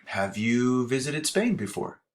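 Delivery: slow, clear example sentence; measured demo pace. Shown as a demonstration. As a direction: say it slowly like a teacher modelling. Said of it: "if I use something like".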